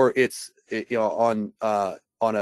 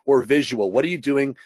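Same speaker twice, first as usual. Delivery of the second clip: ordinary delivery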